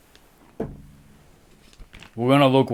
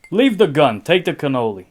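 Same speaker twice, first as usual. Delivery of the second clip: mock mobster New York accent; 4 dB louder, faster than usual. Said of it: "I wish I could do accents".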